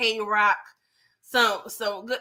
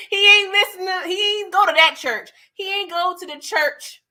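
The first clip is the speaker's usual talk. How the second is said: laughing, higher and louder; 7 semitones higher, 5 dB louder than usual. Real, not acted. Vlogger still cracking up recapping Vic, loud and high. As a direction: talk through leftover laughter, pitched up.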